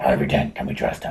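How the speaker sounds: silly superhero voice, pitched very low. Told not to use it, doing the stupid Batman voice anyway. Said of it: "that stupid Batman voice".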